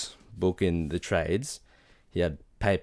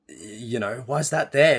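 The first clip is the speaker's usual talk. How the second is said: baffled reaction; 5 semitones higher, 4 dB louder than usual. Retold or imitated. Reader at the first issue's cliffhanger, baffled and rising. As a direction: pitch climbing to a louder question.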